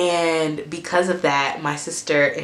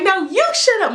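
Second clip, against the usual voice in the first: imitating sister's comeback; 4 dB louder than usual. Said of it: "my sister was like".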